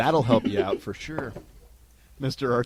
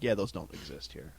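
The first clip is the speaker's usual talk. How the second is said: flat farm worker; 6 semitones lower, 9 dB quieter than usual. Retold or imitated. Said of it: "They're like".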